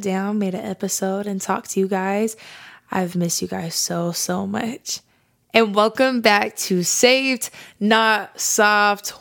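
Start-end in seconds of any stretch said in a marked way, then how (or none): 5.5-9.1 slow, drawn-out show opener; welcoming listeners back like a radio host; excited welcome. Real, not acted. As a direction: announce the show with big energy.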